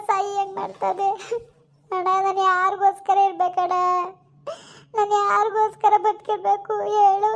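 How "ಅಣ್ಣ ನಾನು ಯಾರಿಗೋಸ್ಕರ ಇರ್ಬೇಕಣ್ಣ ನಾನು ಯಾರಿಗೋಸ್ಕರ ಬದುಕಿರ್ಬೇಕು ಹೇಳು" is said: tearful plea. Acted. Sister pleads with estranged brother.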